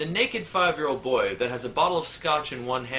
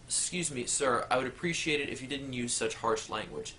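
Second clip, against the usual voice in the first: prim rebuke; 2 semitones lower, 7 dB quieter than usual. Acted. Prim teller rebukes customer.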